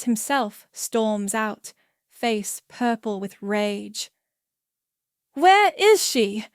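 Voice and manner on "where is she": slow, high, enraged roar. A narrator's reading. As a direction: roar it out in rage. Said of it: "he roars".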